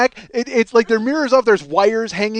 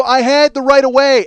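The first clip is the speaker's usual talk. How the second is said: insisting; 3 semitones higher, 5 dB louder than usual. Retold or imitated. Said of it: "I go".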